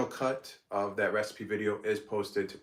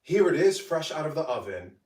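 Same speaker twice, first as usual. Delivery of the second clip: higher, louder cheerful voiceover presentation; voiceover read; 7 semitones higher, 5 dB louder than usual. Acted. Creator showing off her baked agga, bright voiceover. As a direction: present the finished dish like a cooking-show host.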